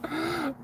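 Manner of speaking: short burst of high laughter. Real, not acted. Laughing at the story.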